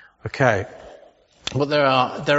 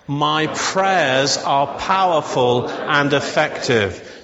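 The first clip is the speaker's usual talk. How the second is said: slow declaration; much slower than usual. Shown as a demonstration. Pastor leading the church in a slow, deliberate declaration. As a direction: say it slowly, every word weighed. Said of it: "So shall we say that together?".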